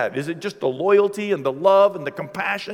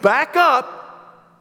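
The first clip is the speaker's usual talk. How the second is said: higher, louder mock threat; kids threatening; 7 semitones higher, 4 dB louder, slower than usual. Kids warning the visitor off, higher and louder. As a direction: shoo him off, pitched up.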